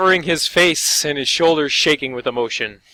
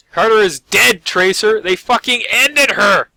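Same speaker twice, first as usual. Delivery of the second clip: grieving orc; 6 semitones higher, 6 dB louder than usual. Acted.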